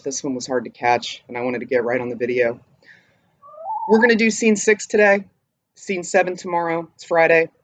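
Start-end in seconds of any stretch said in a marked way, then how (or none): 0.0-2.6 breathless, quick and soft; out of breath. Real, not acted. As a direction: still catching her breath. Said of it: "Sorry I'm out of breath".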